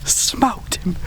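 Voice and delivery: buzzing after the shot; pumped-up hunter bragging after the shot; excited. Real, not acted. Just shot a big buck.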